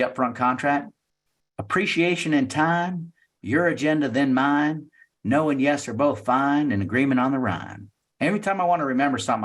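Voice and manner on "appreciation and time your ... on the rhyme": Southern accent. Shown as a demonstration. Salesperson recites a memory rhyme in a Southern accent. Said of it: "I say it in a Southern accent".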